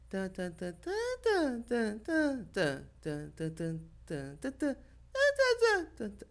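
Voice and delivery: nonsense syllables jumping far up and down in pitch; imitating her melody. Showing the interviewers Meryl's odd musicality, chanting tan with wild leaps. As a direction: hum out a wild sing-song that leaps high then drops. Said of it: "ela faz uma coisa mais ou menos assim".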